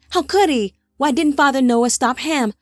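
can't believe what he's hearing; shocked outrage. Acted. Peleg's shocked outraged questions.

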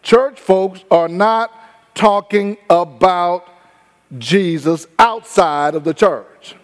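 slow, word by word, driving it home; slowed for emphasis. Shown as a demonstration. Preacher repeating the point to the church, slow and deliberate. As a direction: repeat it slowly so it sinks in. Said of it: "Let me say that again".

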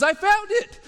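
loud, high cry of triumph; excited shout. Retold or imitated. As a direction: shout it out, thrilled to have found the ring. Lady on plane finds ring.

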